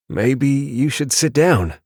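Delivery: slow, kind suggestion; kindly. A narrator's reading. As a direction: gently urge the pregnant woman to sit. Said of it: "said kindly".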